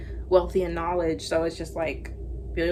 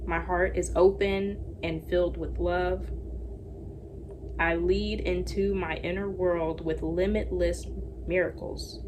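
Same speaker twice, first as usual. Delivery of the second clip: slow, gentle reading of an affirmation. Acted. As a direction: read it like a calm mantra. Reads affirmations.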